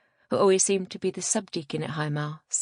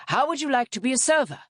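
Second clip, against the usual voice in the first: higher-pitched priest's invitation; calling out; 6 semitones higher, 4 dB louder than usual. A narrator's reading. Priest stopping a young man to recruit him, calling out. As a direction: pitch it up to reach someone. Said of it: "he called out".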